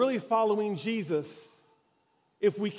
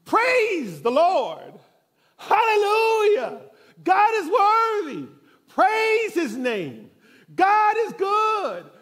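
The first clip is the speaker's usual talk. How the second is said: high, loud, slow praise shouts; ecstatic church shouting; 7 semitones higher, 7 dB louder, much slower than usual. Retold or imitated. Church lady breaking out during the sermon, loud high praise. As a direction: shout praise out from the pew, drawn out. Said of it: "she would just break out from her seat".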